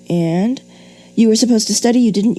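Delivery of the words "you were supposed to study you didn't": higher, hurried run-on read; gabbling the run-on example; rushed run-on. Shown as a demonstration. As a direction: push straight on without a breath. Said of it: "they run on and on".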